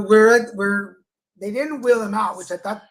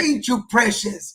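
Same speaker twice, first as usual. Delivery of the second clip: put-on Southern accent; slower than usual. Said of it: "nurses with a Southern accent".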